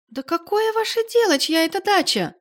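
визг, намного выше и громче; завизжать, не помня себя; взвизгнула. A narrator's reading. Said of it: "взвизгнула Валя". (Валя визгливо кричит на героиню)

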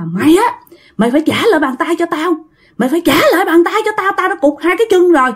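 hammed-up irate ghost making demands; acted fury. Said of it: "Ông tức quá trời luôn".

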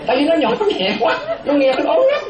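high voice full of laughter; laughing. Real, not acted. Monk explaining the tiny voice to listeners, laughing through it. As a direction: keep talking while you laugh.

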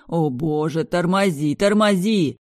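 alarmed shout building; panicked pleading. Acted. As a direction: brother begging her to stop. Brother panics.

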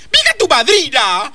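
sharp offended comeback, near tears; indignant retort. Acted. Old woman snaps back at the officer. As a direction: spit it back at him.

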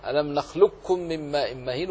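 نخلقكم as nakhlukkum with light doubled ك; no trace of ق weight in نخلقكم; full assimilation. Shown as a demonstration. Teacher giving Abu Amr's reading, نخلقكم with pure doubled ك. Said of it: "يعدم ولا يبقي صفة الإطباق".

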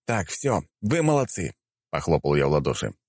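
разнимающий мужчина. Acted. Герой разнимает драку.

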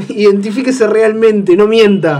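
loud, slow, playful interrogation; mock-stern demand. Host demands the joking caller's real name, mock-stern. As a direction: press the prankster loudly, drawing out the order.

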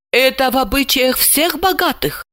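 amazed mumble. A narrator's reading. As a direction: mumble it in astonishment. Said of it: "изумлённо промямлила горничная". (изумлённо мямлит)

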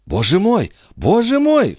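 rising high amazed exclamation; amazed cry. A narrator's reading. Mother seeing the coin in son's hand, amazed. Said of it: "вскричала Николь".

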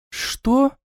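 put-on high astonished girl's question; a startled little yelp of a question. A narrator's reading. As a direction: sister Eda, amazed, lightly voiced. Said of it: "изумлённо сморгнула Эда".

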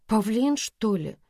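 puzzled, half-asking; surprised. A narrator's reading. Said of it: "удивилась Лика". (удивлённый вопрос)

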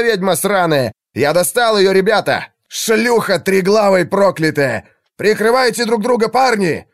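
rally the lads after the hit; jubilant shouting. A narrator's reading. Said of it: "радостные мужские голоса". (ликующий крик солдата)

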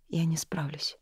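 breathy whisper of defeat; hushed, near-whispered confession; whispered admission. A narrator's reading. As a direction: whisper it, barely admitting it. Nori admits fear quietly.

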